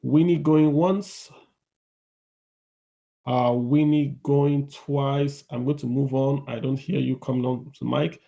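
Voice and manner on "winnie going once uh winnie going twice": auctioneer call. Pretend. Host calling for silent speaker.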